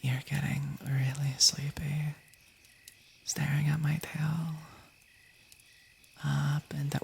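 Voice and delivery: slow whispered hypnotist voice; mock hypnotist. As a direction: lull them to sleep with a slow whisper. Hypnotizing chat again.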